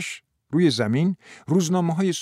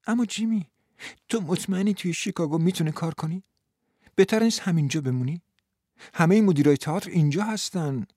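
gently comforting woman; 5 semitones higher than usual. Acted.

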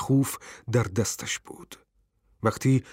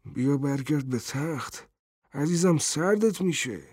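gentle, softer coaxing; kind; 2 semitones higher, 4 dB quieter than usual. A narrator's reading. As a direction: tenderly coax a loved one. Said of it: "پیرمرد با مهربانی گفت". (با مهربانی و ملایمت)

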